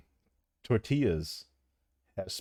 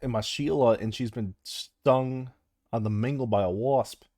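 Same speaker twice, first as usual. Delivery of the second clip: halting attempt at an Aussie accent; Australian accent. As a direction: put on Australian, not quite convincingly. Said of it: "Can you do a-, Australian?".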